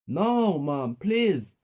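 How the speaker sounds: loud, high desperate plea; pleading child. A narrator's reading. Ted begging his mother before punishment, pleading.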